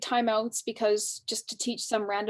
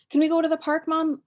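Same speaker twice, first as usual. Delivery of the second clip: put-on child asking; 6 semitones higher, 6 dB louder than usual. Shown as a demonstration. Child voiced asking parent.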